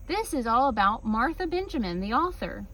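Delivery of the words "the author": ordinary delivery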